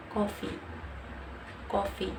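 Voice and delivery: coffee in an Indonesian accent. Shown as a demonstration. Learner shows how Indonesians pronounce the word, Indonesian accent. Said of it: "And in Indonesian accent".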